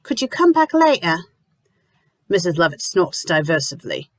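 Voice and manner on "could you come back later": curt request. Acted. Lucy dismissing landlady.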